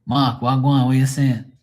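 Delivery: Bermudian-Jamaican street greeting. Shown as a demonstration. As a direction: greet a friend in Bermudian patois. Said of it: "more of a Jamaican, English, Bermudian".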